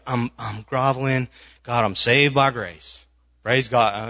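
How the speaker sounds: lapsing into a Southern drawl; slow churchy Southern accent. Acted. Preacher mimics a groveling believer, lapsing into a Southern accent. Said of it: "it's like falling to a Southern accent".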